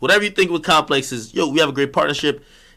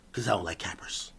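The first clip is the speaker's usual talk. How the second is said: hushed unvoiced whisper; whispered aside; 11 semitones lower, 16 dB quieter than usual. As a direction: drop to a secret whisper. Muttered aside after loud rant.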